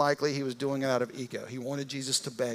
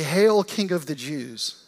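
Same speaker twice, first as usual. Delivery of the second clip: mock hail; 6 dB louder, slower than usual. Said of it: "in mockery".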